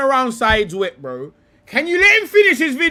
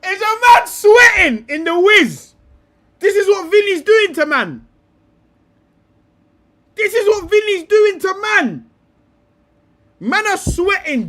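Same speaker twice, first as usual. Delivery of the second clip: mocking tease; 6 semitones higher, 4 dB louder than usual. Real, not acted. Mocking the pundit's sweating.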